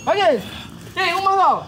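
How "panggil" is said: shouting, fading. Real, not acted. Healer commands spirit to call others.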